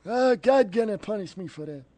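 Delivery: put-on old man, fretful; old Jewish man voice. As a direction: lament it like a worried old man.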